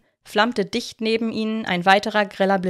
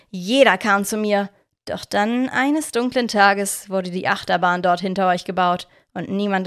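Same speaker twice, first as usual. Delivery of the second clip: villain's tale. Acted. Victor telling the children his bitter backstory. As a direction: tell your grievance with self-pity.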